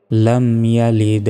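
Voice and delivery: "লাম ইয়ালিদ" recited slowly with bounced d; measured "lam yalid-e", echoed ending; qalqalah ending. Shown as a demonstration. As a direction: push off the last d of "লাম ইয়ালিদ". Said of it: "ধাক্কা দিয়ে পড়তে হবে".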